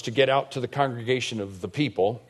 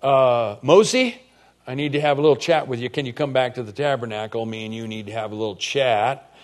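casual God; 3 dB louder than usual. Acted. God phoning Moses for a little chat, casual and playful. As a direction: call him back for a friendly talk. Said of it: "God calling Moses".

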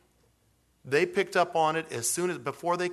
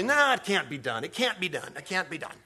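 doubting disciples; 3 semitones higher than usual. Retold or imitated. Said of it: "The disciples say".

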